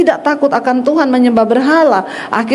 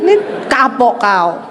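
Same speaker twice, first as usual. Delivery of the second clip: normal talking voice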